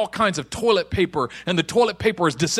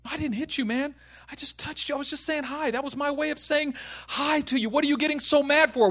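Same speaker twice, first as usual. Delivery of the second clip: soft, high-pitched self-defence; defensive; 5 semitones higher, 5 dB quieter than usual. Acted. Friend explaining a harmless touch to Josh, defensive. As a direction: plead innocence in a small raised voice.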